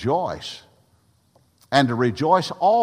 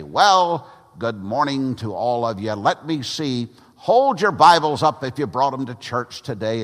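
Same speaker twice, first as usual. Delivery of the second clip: put-on a lightly raised, hearty old evangelist greeting the congregation; Grant Rice's preaching voice; 3 semitones higher, 4 dB louder than usual. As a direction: open a little higher and louder, like a folksy old preacher starting the service. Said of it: "he had a very distinct voice, just like this".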